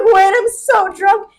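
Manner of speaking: loud, high and dragged out; hammed-up drunken plea. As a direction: plead slowly like an exaggerated drunk. Acting out herself drunk in quarrel.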